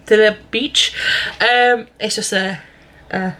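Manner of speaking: talking through crisps; words round a mouthful of crisps; mouth full. Real, not acted. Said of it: "crisps in my mouth".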